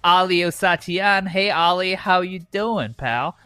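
loud, drawling Southern hick host; redneck cowboy voice. Acted. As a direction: ham up a good old boy cowboy. Hosts playing redneck Tennessee cowboys.

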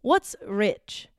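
put-on Cockney accent. Shown as a demonstration. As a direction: have a go at Cockney. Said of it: "It's always Cockney".

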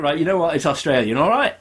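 mock fed-up, ending on a high rising "all right"; exasperated comeback, retold; retold exasperation. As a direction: give in huffily, pitch lifting sharply at the end.

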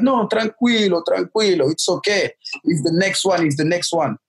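mock kindly nun; reassuring nuns. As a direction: soothe the nervous boy.

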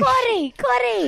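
high, loud Italian grandma call; imitating grandma's urgent shout; grandma urging. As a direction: hurry the kids along like grandma. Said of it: "That's what my grandma used to say".

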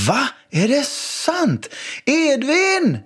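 high mock-shocked call. Dad calling his son from the kitchen, high mock-outraged call. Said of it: "ropade jag".

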